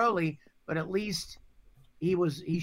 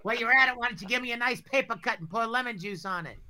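sarcastic; 5 semitones higher, 3 dB louder, faster than usual. Pretend. Continues the mock complaint.

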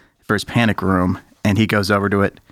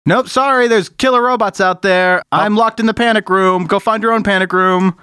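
smug refusal; 9 semitones higher than usual. Acted. Game master voicing the smug brother inside. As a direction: gloat from behind the door.

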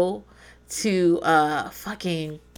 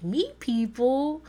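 incredulous balk; 9 semitones higher, slower than usual. Retold or imitated. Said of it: "I'm like".

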